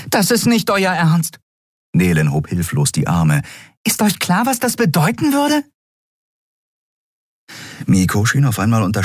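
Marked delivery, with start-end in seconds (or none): 0.1-5.6 hoch, schnell, besorgt fragend; Nelen, unruhig. A narrator's reading. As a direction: eine kleine geflügelte Gestalt in Sorge. Nelen hilflos. (Nelen fragt unruhig, viel höher)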